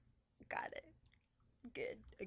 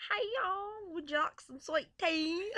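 put-on country accent; 5 semitones higher than usual.

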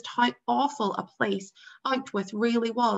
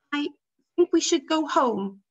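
brave; 6 semitones higher, 5 dB louder than usual. A narrator's reading. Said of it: "he added bravely".

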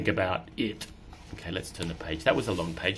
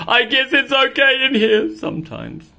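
higher grudging cat voice; a touch of satisfied cat; higher mildly pleased cat; content cat; 14 semitones higher, 10 dB louder than usual. Acted.

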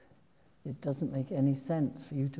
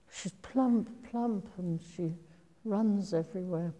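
high and bouncy; 5 semitones higher than usual. Retold or imitated. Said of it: "the text says".

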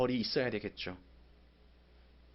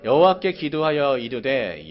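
angry reading; 8 dB louder, slower than usual. Acted. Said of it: "내가 요나가 된 것처럼 한번 읽어보겠습니다".

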